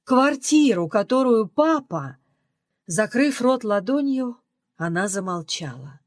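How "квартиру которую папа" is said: возмущённо повторяет «квартиру», с нажимом на «Квартиру»; громче и выше на втором «Квартиру». Acted. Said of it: "Возмущённая мать". (возмущённая мать кричит о квартире отца)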